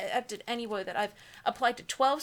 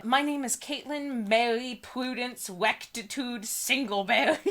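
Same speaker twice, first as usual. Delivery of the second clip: mock heroine reading; 3 semitones higher than usual. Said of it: "Tone it down".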